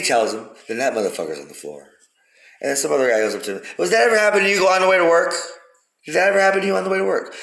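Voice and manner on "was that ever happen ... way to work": much higher, louder and fast, a different voice; put-on questioning voice. Another passer-by asks the man on the floor, high put-on voice. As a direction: squeal the question like another person.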